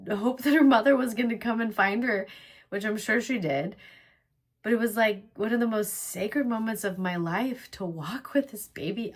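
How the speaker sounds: aching, emotional remembrance; choked up. Real, not acted. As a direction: keep talking while welling up. Aching for days raising her children.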